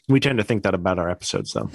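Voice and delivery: talking while chewing; words around a bite of candy; mouth full. Real, not acted. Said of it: "Sorry, I'm eating a Reese's peanut butter cup".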